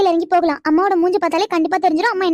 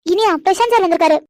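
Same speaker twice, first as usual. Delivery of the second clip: said louder on request. Acted. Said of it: "சத்தமா சொல்லு".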